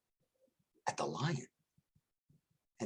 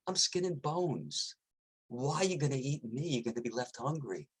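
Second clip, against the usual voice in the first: sly coyote; 4 semitones higher than usual. Acted. Sly coyote deflects the lion.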